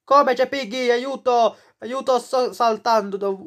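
jumping away in a playful panic; being chased. Pretend. Piggy suddenly appears in game.

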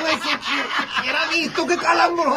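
high voice through hard laughter; laughing. Real, not acted. Comic cracking up over his own joke, laughing. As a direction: talk while cracking up.

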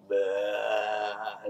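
low, drawn-out "bleh"; imitated undead groan; zombie groan. Reviewer mimics the zombie coming out, drawn-out groan. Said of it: "The freaking zombie comes out".

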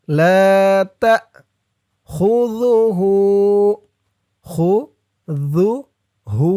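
হু held for one alif at the end of তাখুযুহু; one-alif elongation. Shown as a demonstration. Teacher shows students the one-alif pull on হু. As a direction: lengthen the হু by one count. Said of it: "হু এক আলিফ টান হবে".

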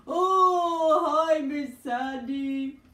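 high, slow puppet voice; a sweet high puppet greeting. Acted. Bob puppet voice.

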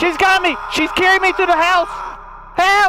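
panicked calling. Real, not acted. Carried off by monster.

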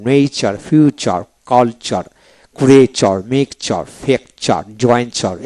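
NEচার, ফিউচার, কালচার read one by one, each ending in a clear "char"; spaced demo of the "চার" ending; word-list pronunciation. Shown as a demonstration. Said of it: "এইভাবে পড়তে হবে".

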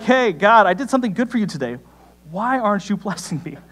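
lightly acted entitled protest; mock complaint to God.

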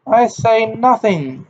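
high, slow, choking on tears; choked. A narrator's reading. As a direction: force it out through a tight throat. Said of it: "she choked".

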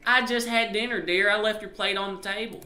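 high-pitched wifely voice; sweet wife. Acted. Wife telling husband about dinner, sweet high voice. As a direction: put on a high voice for a doting wife.

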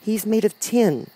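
put-on slow, high-pitched child voice; Dorothy, little girl. A narrator's reading. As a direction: explain slowly as a small girl. Dorothy explains.

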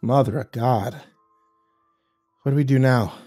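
babbling. Acted. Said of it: "Keen began to babble".

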